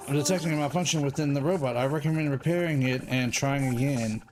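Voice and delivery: a hint of a computer warning voice; robot voice. Mock announcement about the robot.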